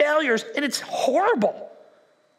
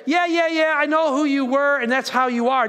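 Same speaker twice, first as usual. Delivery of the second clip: mock dismissive quote; 3 semitones higher, 3 dB louder than usual. Voicing what God doesn't say.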